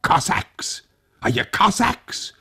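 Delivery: high questioning call. Acted. Old Tag calling to the soldiers outside, high call. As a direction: call out through the window. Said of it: "and called out".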